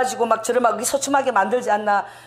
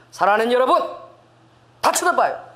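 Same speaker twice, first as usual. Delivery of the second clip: loud. Retold or imitated. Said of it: "사람들이 저를 다 쳐다보는 거야".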